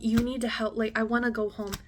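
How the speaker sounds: loud, desperate call for help; urgent plea. Retold or imitated. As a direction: beg him to step in. Retold pleading to roommate.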